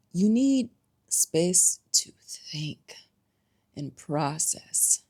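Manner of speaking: slow, whispered point; slow it down and soften; breathy, unhurried advice; hushed emphasis. Real, not acted.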